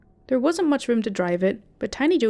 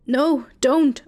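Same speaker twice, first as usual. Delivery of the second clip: high, loud desperate scream; 5 semitones higher, 5 dB louder than usual. A narrator's reading. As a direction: scream it to stop him. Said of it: "I screamed at him".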